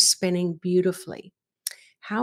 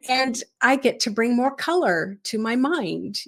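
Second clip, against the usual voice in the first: lightly acted delight, pitched higher; excited; 4 semitones higher than usual. Meditation teacher models the happy response for students, lightly excited. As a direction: sound pleased to have the chance. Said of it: "get excited and say".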